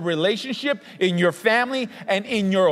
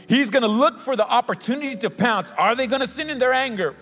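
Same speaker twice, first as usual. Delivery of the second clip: fired-up preaching, pitched higher; 4 semitones higher than usual. Real, not acted. Preacher warning the church how the devil pounces, fired up. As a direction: preach it with rising urgency. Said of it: "You're fired up".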